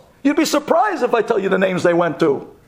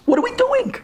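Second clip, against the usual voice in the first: much higher, exasperated cry; outcry. Real, not acted. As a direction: throw the question up in despair. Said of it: "We're putting tuxedos on donkeys?".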